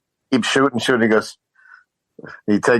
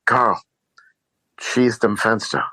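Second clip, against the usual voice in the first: lightly acted film villain's order, slow on the German; quoting Hans; 4 semitones higher, slower than usual. Villain orders henchman Carl in German, lightly acted slow command. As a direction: quote the villain's German command, a little higher. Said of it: "and he's like".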